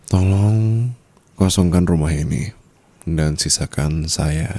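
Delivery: bossy phone instruction; commanding order. Acted. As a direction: give staff an order. Orders servants over phone.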